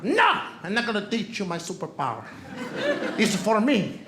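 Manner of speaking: mock Spanish accent for his wife; lightly put-on Spanish-accented refusal; exaggerated Spanish-accented wife, lightly done; wife's imagined accent. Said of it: "My wife doesn't even speak like that".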